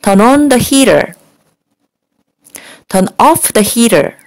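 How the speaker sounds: each phrase slowly with pauses to repeat; teacher modeling a drill; slow repeat-after-me. Shown as a demonstration. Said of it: "한 번만 따라해 주세요". (따라하기용으로 천천히 또박또박)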